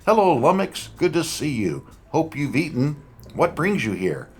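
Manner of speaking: high, cheerful greeting voice; genial older man. Acted. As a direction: greet an old friend warmly. Genial old friend greets her.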